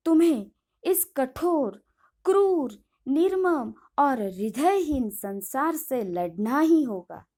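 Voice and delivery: impassioned. Acted. Master urging her to fight back.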